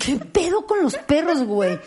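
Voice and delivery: high, slow disbelief; baffled at her own tears; exasperated. Real, not acted. Asking why dogs move her so, drawn-out. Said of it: "why puppies make her cry".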